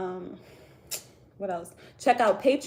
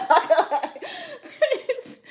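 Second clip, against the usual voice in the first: drawn out slowly through real laughter, much higher; laughing; 9 dB louder, much slower than usual. Real, not acted. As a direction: laugh the words out as you repeat them. Laughs at her own snack confession.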